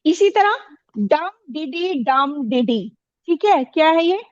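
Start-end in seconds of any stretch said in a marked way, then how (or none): 1.0-2.9 slow chant, stress on डम, डिडी unstressed; stress on DUM. Shown as a demonstration. Teacher demonstrates dactyl rhythm, stress on each डम. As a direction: hit डम, let डिडी drop lightly. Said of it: "डम में stress है".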